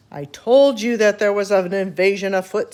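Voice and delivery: a touch of an insistent boar. Acted. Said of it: "said the other boar".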